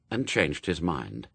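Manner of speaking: usual speaking voice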